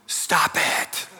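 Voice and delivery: high, strained mock yell, held back in volume; high-pitched pretend shout. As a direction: act out a counselor's yell without full volume. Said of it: "yells at the top of his lungs".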